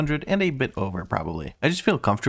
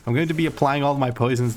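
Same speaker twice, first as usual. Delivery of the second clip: talking through a burp; words caught on a cola burp; 3 semitones higher than usual. Real, not acted. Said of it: "I'm actually burping right now".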